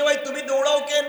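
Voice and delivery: high-pitched, loud shouted call.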